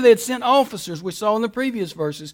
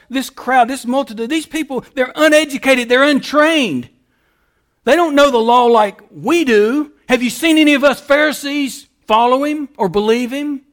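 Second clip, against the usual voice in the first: louder, scornful mock of the Pharisees; condescending sneer; 4 semitones higher, 4 dB louder than usual. Preacher voicing Pharisees scorning the crowd, louder and sneering. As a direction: look down your nose at the crowd. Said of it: "how condescending and arrogant the religious leaders are".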